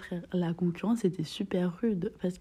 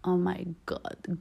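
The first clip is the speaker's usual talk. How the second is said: awed whisper; much slower than usual. Retold or imitated. Swooning inner thought.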